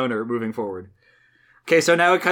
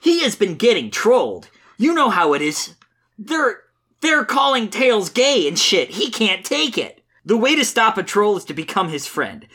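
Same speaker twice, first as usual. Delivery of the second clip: high, sing-song earnest Sonic; 4 semitones higher than usual. Acted. Reader voices Sonic defending his friend, high and earnest. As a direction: preach friendship in a high, naive hero voice. Reads Sonic's comic lines.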